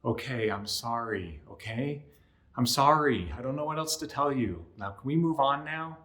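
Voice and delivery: dragged-out, grudging sorry; reluctant apology. Shown as a demonstration. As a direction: give it grudgingly, just to move on. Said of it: "it can kinda sound like this".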